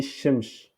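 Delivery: "shimsh" ending in sh instead of s; prononciation fautive. Shown as a demonstration. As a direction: put sh at both ends of "shimsh". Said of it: "euh, c'est faux". (« shimsh » avec ch final fautif)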